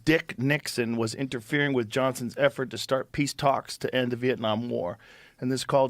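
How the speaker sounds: even, steady article read; measured reading voice with little pitch movement; reading aloud. Real, not acted. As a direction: read it out like a news report.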